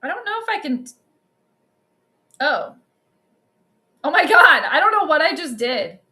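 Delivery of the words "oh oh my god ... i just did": a loud, startled outburst; real shock at a broken stream. Real, not acted. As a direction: blurt it out as something goes wrong. Stream suddenly breaks.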